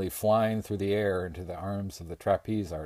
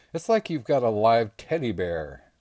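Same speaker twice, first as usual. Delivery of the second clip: lightly voiced Bradley; 4 semitones higher, 7 dB louder than usual. A narrator's reading. Bradley's dim cheerful remark.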